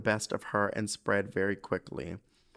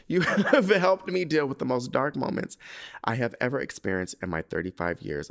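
fighting tears; 3 dB louder than usual. Real, not acted. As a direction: push the words out through threatening tears. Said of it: "I'm really about to start crying".

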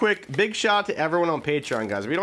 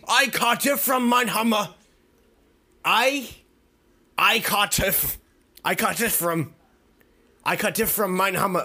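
put-on Australian accent, starting high; 4 semitones higher than usual. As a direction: sound out the words in mock Australian. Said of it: "say it with an Australian accent".

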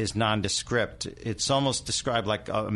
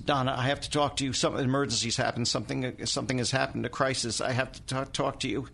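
fast, high, panicked phone call; frantic; 4 semitones higher than usual. Retold or imitated. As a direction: rush it out in a panic. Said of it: "frantic phone call".

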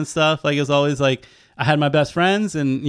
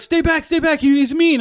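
put-on high anxious warning, old man voice; a hint of a worried old man; 13 semitones higher than usual. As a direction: play the nervous old man holding the leash. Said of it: "he's like".

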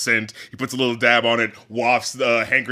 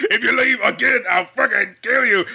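higher, gruff mock threat from the boss; angry boss; 8 semitones higher than usual. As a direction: play the bullying boss, half in jest. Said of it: "just goes like".

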